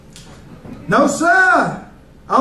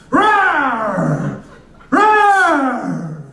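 hammed-up lion roar. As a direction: roar like a lion after dinner. Comic playing a roaring lion.

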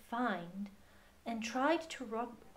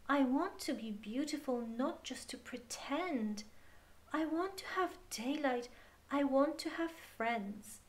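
a small, pleading prayer voice, higher; earnest prayer; 4 semitones higher than usual. Acted. Girl praying alone at bedtime, pleading. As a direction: pray for a miracle in a lifted, hopeful voice.

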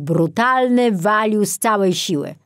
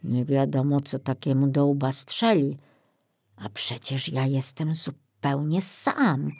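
groaning; 3 semitones lower, 4 dB quieter than usual. Acted. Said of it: "jęknął".

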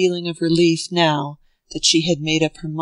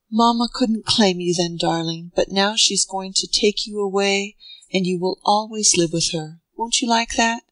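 tender coaxing mother; 2 semitones higher than usual. Acted. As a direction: coax the sleepy child lovingly. Mother comforts her son.

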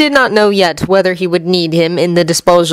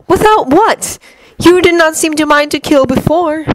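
higher, measured villain voice; Loki's cool, higher menace; cold god Loki; 9 semitones higher than usual. Acted. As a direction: lay out the plan like a calm schemer.

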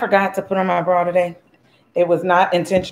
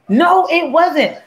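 playful denial; 8 semitones higher, much slower than usual. Real, not acted. Denying a viewer's accusation.

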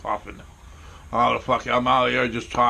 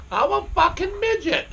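laughing. Real, not acted. Repeats joke still laughing.

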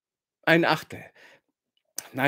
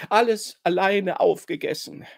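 etwas höher, schluchzend wiederholt; 5 semitones higher than usual. A narrator's reading. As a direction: weinerlich gestehen. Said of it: "schluchzt sie". (schluchzendes Geständnis)

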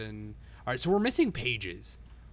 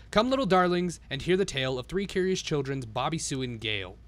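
1 storybook reading. A narrator's reading. Reads the storybook rhymes.

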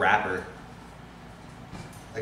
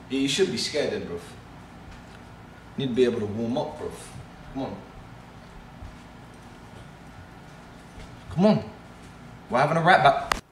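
UK drill rapper; faster than usual. Pretend. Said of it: "my impersonation of a U K drill artist".

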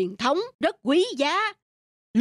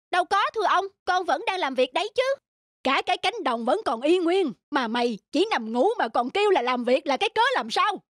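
put-on higher, innocent young servant voice; higher pitched boy pretending to be obedient; 6 semitones higher than usual. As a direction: feign innocence to the master. Young servant answers the master.

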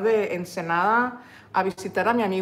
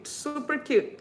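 delighted; 5 semitones higher, 5 dB quieter, slower than usual. Real, not acted.

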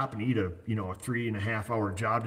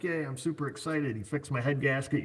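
high, bright-eyed mock cheer; mock excited customer; 5 semitones higher than usual. Mechanic imitating a happy customer, high mock glee. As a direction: play the thrilled customer, a bit hammed-up. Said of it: "You're super excited".

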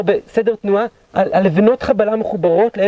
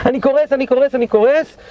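mock yell; 5 semitones higher than usual. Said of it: "הוא צועק למח"ט".

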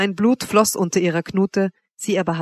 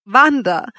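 louder, higher cry of the name; cried out; 5 semitones higher, 5 dB louder than usual. A narrator's reading. Man gripped by dread to Wanda, crying out. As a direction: call out in mortal dread. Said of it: "schrie ich".

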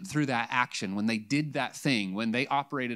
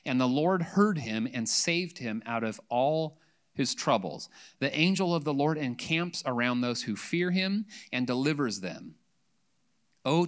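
scripture reading; 3 dB louder than usual. Acted. Pastor reading Psalm 34 to the congregation: measured scripture reading. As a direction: read it aloud with weight to the church.

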